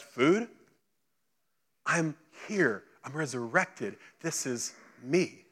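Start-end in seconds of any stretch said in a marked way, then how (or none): 1.9-5.4 soft, measured reassurance; gently prove it's really you; hushed, acted words of comfort; quiet assurance. Jesus quietly proving he's alive.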